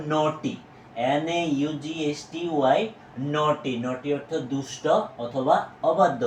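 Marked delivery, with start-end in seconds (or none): 0.1-0.6 "নটি" said as naw-tee, silent gh; correct pronunciation. Shown as a demonstration. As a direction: model "নটি" clearly for learners. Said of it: "আমরা এটাকে উচ্চারণ করব".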